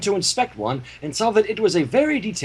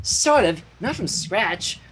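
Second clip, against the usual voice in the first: modest Pinky; 3 semitones higher, slower than usual. Acted. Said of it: "Pinky said modestly".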